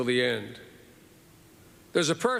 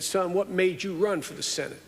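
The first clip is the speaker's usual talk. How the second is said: Senator Stennis voice; 5 semitones higher than usual. Retold or imitated. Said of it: "he always talked like this".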